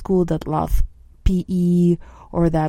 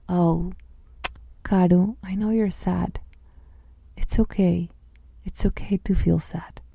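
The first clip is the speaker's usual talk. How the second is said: soothing loving voice; 3 dB quieter than usual. Shown as a demonstration. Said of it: "This loving voice".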